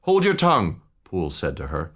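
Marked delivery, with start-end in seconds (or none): 0.0-0.8 high, louder sharp order; fierce rebuke. Acted. Poole silencing the weeping maid, fierce rebuke. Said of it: "with a ferocity of accent".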